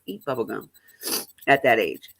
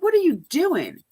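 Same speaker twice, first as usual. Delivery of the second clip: stern question; 13 semitones higher, 3 dB louder than usual. Retold or imitated. Mother confronting daughter in story.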